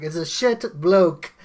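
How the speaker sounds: slow, loud imitation of an Aussie; the speaker's Aussie accent. Host imitating the guest showing his passport, mock Aussie accent. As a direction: draw it out in a mock Australian accent. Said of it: "True Aussie there".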